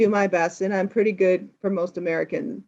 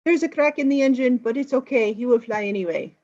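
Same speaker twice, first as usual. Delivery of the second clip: mock French accent; 4 semitones higher than usual. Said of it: "And he says".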